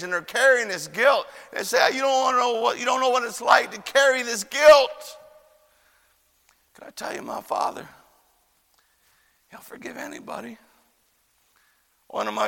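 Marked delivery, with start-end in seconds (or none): 1.9-5.2 anguished outcry. Retold or imitated. Acted men crying out their guilt. 6.7-10.6 very soft, breath-light appeal; hushed assurance. Real, not acted. Preacher answering guilty men, hushed assurance.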